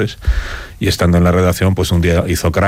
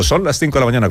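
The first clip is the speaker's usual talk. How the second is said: radio announcer; 7 semitones higher, faster than usual. Retold or imitated. Retold radio station opening.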